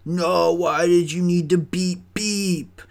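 hammed-up comeback, pitch climbing at the end; imitated arguing coworker. Coworker disputing the beep warning, high mock accusation. Acted quarrel, coworker answering back.

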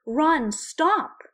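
high, loud desperate cry; pleading scream. A narrator's reading. Hermione screaming at Ron to stop. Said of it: "she pleaded".

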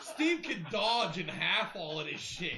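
laughing. Real, not acted. Laughing while describing Steve.

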